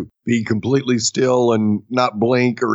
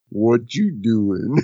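slightly lowered, slow mock-deep voice; deeper voice, imitated; 3 semitones lower, slower than usual. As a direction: draw it out slowly in his deepened voice. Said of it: "Did his voice just get deeper?".

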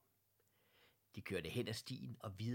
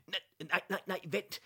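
loud, higher cries of stop; sudden exclamation; 9 semitones higher, 7 dB louder than usual. A narrator's reading. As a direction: shout to halt suddenly. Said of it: "udbrød fru Lindberg pludselig".

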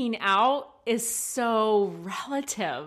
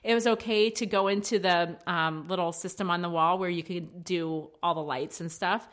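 mild exasperated parent; 2 semitones lower than usual. Retold or imitated. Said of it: "exactly like I said it on the microphone".

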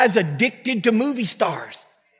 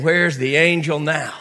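whiny demand; 4 semitones lower than usual. Retold or imitated. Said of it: "and you're saying".

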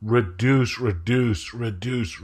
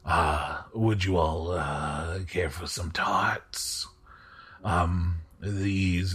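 slow, hushed aristocrat, often dropping to a whisper; a polite lord, unhurried and confiding; courtly host voice; 3 semitones lower, 4 dB quieter, slower than usual. Acted. Host offers tarts.

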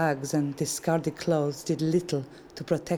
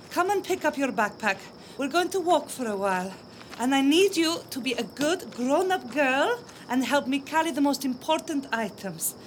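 brave mother, gentle and higher; coaxing mother; 8 semitones higher than usual. Acted. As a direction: cheerfully coax a tired child. Mother coaxes her little daughter.

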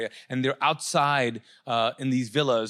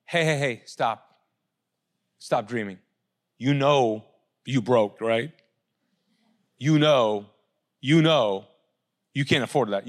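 voice of money. Acted. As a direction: belittle the listener as money would. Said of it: "Money tells you".

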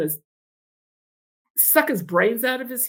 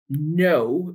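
a flat, stern no; a touch of stern refusal; 5 semitones lower than usual. Retold or imitated. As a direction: cut her off with a firm no. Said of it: "very sternly".

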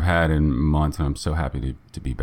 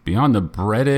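fake announcer voice; 5 semitones higher, slower than usual. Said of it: "introducing us wrong".

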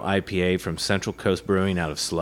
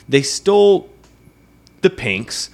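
indignant emphasis; 5 semitones higher, 4 dB louder, slower than usual. Real, not acted. Complaining the can art was copied.

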